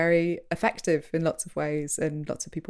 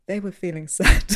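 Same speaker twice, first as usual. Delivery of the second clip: louder presenter's echo, breaking into a laugh; imitated presenter; 2 semitones higher, 6 dB louder than usual. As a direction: restate it as a mock narrator, firmly. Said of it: "they'll come in and be like".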